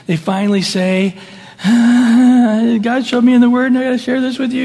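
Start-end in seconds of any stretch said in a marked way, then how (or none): 1.6-4.6 earnest burst. Retold or imitated. Corrector finally speaks up.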